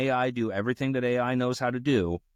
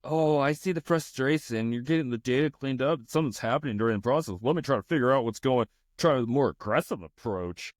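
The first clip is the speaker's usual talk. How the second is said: mock AI apology; 2 semitones higher than usual. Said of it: "Watch this".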